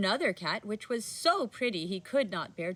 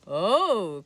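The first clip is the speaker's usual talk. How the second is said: joyful cry; 6 dB louder than usual. Acted. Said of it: "cried the old man joyfully".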